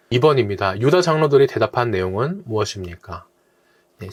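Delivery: normal talking voice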